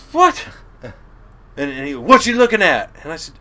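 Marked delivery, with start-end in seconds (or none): 0.1-0.5 much higher, surprised yelp; startled what. Retold or imitated. Startled reply to the yelling captain. 2.0-2.9 imitating the captain shouting, higher and louder; retold angry yell. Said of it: "chewed my ass".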